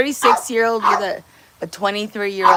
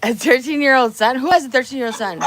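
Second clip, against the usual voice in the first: disbelief; 4 semitones higher, 5 dB louder than usual. Real, not acted. Disbelief at a comment.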